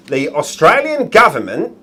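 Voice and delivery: attempted Australian accent. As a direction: have a go at sounding Australian. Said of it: "he's gonna try and be Australian".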